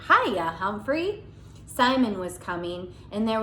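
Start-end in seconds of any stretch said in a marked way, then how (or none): 0.1-1.2 put-on boy's greeting. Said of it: "a familiar".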